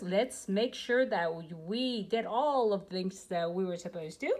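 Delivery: too much caffeine, jittery; rushed and a bit shaky. Real, not acted. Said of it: "I'm a little bit jittery here".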